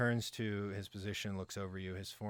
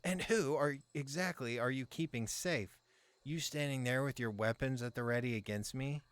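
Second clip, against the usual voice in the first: higher, louder, indignant protest; outraged merchant; 5 semitones higher, 3 dB louder than usual. Acted. Merchant berating the toll soldier, outraged and loud. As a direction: rail at the soldier with every word. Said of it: "Aster speaks, swinging his arms about again, emphasizing the words".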